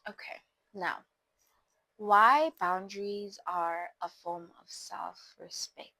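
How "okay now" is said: soft unvoiced whisper to open the topic; hushed whisper before moving on. Real, not acted. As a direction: breathe it out, barely voiced. Shifting into the topic.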